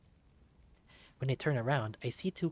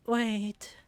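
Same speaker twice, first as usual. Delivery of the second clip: desperate cry; 10 semitones higher, 7 dB louder than usual. Acted. Dying kid calling out.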